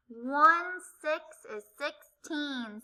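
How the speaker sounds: "One six is sixteen" said slowly, each part spaced; slow modelling. Shown as a demonstration. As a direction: spell out each digit slowly for kids. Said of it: "Say it with me".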